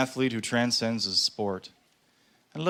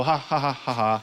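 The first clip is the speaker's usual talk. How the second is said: mock crowd laugh. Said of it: "crowds go".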